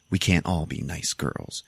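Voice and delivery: slow, understated imitation of a cool reply; deadly serious. Woman turns on the man begging her, all serious. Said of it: "all serious".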